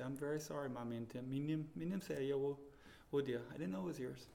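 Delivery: retold apology, softened voice; humble apology. Young missionary apologizing to his African host over her towel, humble apology. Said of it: "sit down humbly and say".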